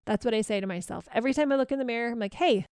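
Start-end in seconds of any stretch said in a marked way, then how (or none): 2.4-2.7 friendly hello, lifting then falling on "hey"; really friendly voice. Shown as a demonstration. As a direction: greet yourself like a friend. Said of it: "in a really friendly voice".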